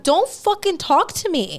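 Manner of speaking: pissed-off refusal. Retold or imitated. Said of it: "I started getting pissed".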